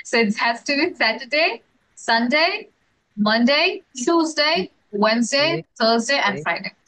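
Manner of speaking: slow, deliberate run through the weekdays; careful pronunciation drill. Shown as a demonstration. Teacher drills correct weekday pronunciation, slow and deliberate. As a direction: lay out each day name clearly for the class. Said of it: "তাহলে উচ্চারণগুলো কিন্তু এরকম".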